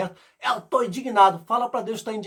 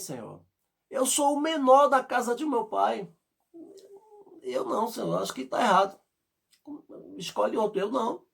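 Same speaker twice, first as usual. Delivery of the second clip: Gideon pleading; 3 semitones higher than usual. Retold or imitated. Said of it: "ele disse".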